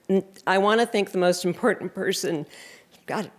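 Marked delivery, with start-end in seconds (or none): 3.0-3.3 softly choked up, laughing it off; fighting back real tears with a laugh. Real, not acted. Honoree thanking her loved ones, choked up and softer. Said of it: "I'm getting choked up".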